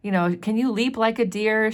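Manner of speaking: imitating a mother coaxing her little girl. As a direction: coax a shy child over to you, lightly acted. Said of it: "She tries to coax her".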